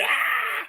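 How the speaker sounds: breathy acted "Ah!" through laughter; mock scream. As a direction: cry out in mock alarm while cracking up. Acts out people's reaction, laughing.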